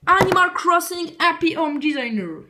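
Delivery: English title slowly drawn out in a French accent. Real, not acted. Vlogger announcing the first game on the pile, French-accented English. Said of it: "désolé pour mon accent anglais".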